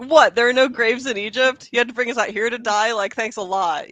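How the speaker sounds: loud, indignant disbelief easing into sarcasm; exasperated mock outrage; modern sarcastic complaint. Shown as a demonstration. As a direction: gripe incredulously, as if fed up. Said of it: "if you were gonna say that now".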